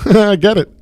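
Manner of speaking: high, loud laugh through the words; real laughter breaking in. Real, not acted. Laughing at his own rant.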